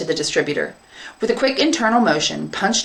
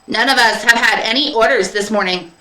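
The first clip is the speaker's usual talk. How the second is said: higher, louder little clerk machine; pen propeller robot; 4 semitones higher, 4 dB louder than usual. Acted. Pen propeller joining in, mechanical. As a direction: chime in like a small robot.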